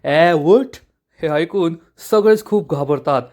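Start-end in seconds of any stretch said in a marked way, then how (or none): 0.0-0.7 loud call with a rising end; loud angry yell. Retold or imitated. Angry elder jumps up at the suitor, loud rising yell. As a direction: yell the order, louder and lifting. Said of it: "जोरात ओरडतात".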